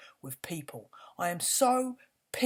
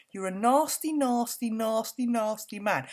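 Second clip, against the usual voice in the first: angry repetition; 3 semitones higher, 4 dB louder than usual. Real, not acted. Furious rant at royal.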